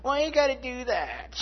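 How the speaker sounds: high whining protest; whiny mock complaint. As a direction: whine it like a sulky kid. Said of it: "it's like".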